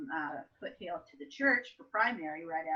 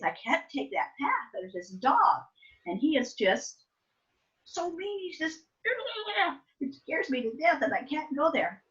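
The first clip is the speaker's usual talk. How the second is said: put-on scared child; 9 semitones higher, 4 dB louder than usual. Child scared, pleading to mom.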